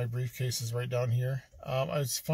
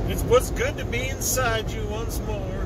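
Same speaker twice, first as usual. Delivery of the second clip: higher, louder, drawn-out silly voice; odd put-on voice; 6 semitones higher, 5 dB louder than usual. Vlogger saying goodbye to Denver to viewers, in a silly put-on voice. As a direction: slip into a strange new voice for the camera. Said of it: "I don't know why I'm talking like this".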